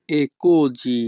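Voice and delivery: così said with the si sounding like zi; così pronounced kozi, s voiced; Italian pronunciation. Shown as a demonstration. Teacher shows students how così sounds, si voiced as zi. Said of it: "এখানে এসআই এর উচ্চারণ হবে জি".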